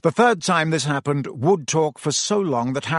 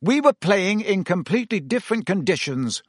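shouted; 7 semitones higher than usual. A narrator's reading. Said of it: "Wood shouted".

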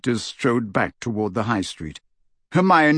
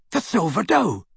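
high, eager realisation; excited; 8 semitones higher than usual. A narrator's reading. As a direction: blurt it out as it clicks. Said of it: "he said excitedly".

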